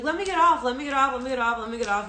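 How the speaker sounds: frantic retold plea, fading as it repeats; freaking out. Re-enacting herself on a hot plane, freaking out. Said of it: "I'm freaking out".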